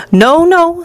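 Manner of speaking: high, hurried-sounding protest; alarmed plea. A narrator's reading. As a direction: beg to head off a disaster. Wonka pleading with queasy passenger.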